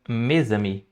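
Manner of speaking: mes amis slowly in French, mes linked with a z into ami; French pronunciation. Shown as a demonstration. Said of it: "se eu quiser falar meus amigos, fica". (pronúncia francesa lenta de mes amis)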